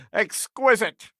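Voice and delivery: slow, high, relishing "Exquisite!"; savouring exclamation. Acted. Savouring exclamation after laugh.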